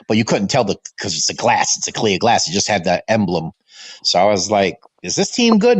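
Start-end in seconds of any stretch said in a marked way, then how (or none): 5.0-5.8 imitating his childhood self. Child asking his father.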